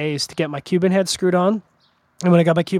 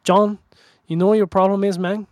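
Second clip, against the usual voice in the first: Hamlet impression; 3 semitones higher than usual. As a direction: mimic your buddy Hamlet coaching you, loosely, not a full character voice. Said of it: "I'm gonna do my Hamlet impression".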